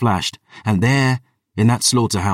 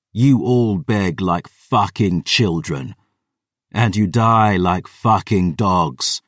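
measured contempt for an enemy; vengeful Gabriel, scornful. Acted.

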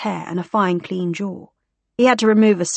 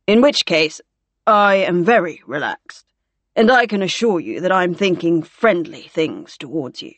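lightly voiced wry officer, measured; wry scanner patient; 3 dB louder than usual. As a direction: offer a dry, deliberate assurance. Gore reassures radiographer drily.

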